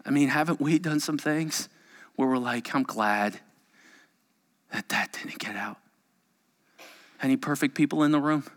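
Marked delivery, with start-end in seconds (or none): 2.7-5.8 softer, hushed whisper of relief. Retold or imitated. Preacher voicing the congregation's hidden relief, whispered. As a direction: whisper it like a secret kept.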